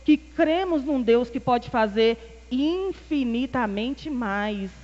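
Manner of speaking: loud, rousing pulpit cadence; fiery preaching. Acted. Preacher rallying the congregation, loud rousing proclamation. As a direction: preach it out with full conviction to the church.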